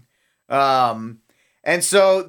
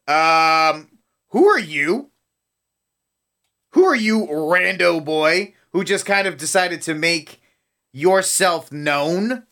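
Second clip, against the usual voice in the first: mock incredulous. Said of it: "people are like".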